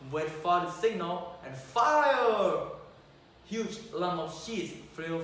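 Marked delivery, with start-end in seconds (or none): 0.1-2.7 louder, barked order to fire; shouted order. Acted. Prince orders the soldiers to fire, loud command. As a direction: give the firing command loud. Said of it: "he shouted".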